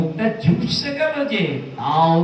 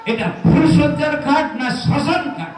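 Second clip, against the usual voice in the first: sarcastic question through a laugh, pitched up; mocking laugh; 5 semitones higher than usual. Husband mocking the wedding night with a laugh. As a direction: laugh at the gloom of it.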